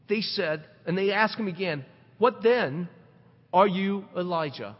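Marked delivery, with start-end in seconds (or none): 2.2-4.8 hopeful asking. Retold or imitated. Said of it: "with hope".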